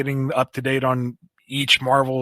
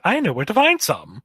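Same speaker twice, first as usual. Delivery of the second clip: higher, lilting eager helper; Starline; 5 semitones higher than usual. Acted. Starline answering his hungry symbiote, higher and eager. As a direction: pitch it up, keen to oblige. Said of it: "And Starline's like".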